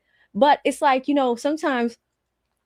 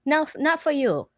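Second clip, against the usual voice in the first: put-on Vietnamese accent; 5 semitones higher than usual. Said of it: "You know, like".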